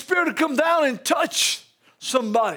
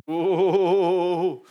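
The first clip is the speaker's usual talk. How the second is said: long wavering "oh"; 7 semitones lower than usual. Acted. Mock groan after God's reply.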